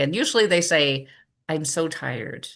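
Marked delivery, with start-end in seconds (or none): 1.5-2.5 slow, slightly softened tired reply; mildly acted tiredness, drawn out; imitated weariness. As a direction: sigh it out slowly like a tired cashier. Voices weary checkout worker's reply.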